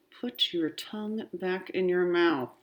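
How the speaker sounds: put-on quietly spaced-out words to a child; mom's whisper. A narrator's reading. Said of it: "My mom whispers to me".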